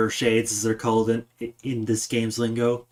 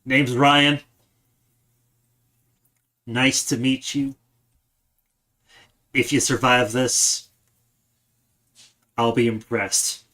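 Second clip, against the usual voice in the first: gruff voice. Acted. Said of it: "he says in a gruff voice".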